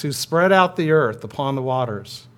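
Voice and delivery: projected responsive reading; a firm call awaiting their response; cantor's call. Pretend. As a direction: lead the congregation through the verse. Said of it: "I'm the cantor".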